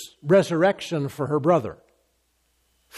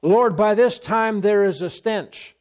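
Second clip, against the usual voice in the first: Martha protesting; 3 semitones higher than usual. Acted.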